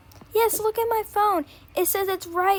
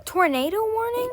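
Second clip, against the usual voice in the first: alarmed cry; 5 semitones higher than usual. Pretend. Doll reads tornado warning alert.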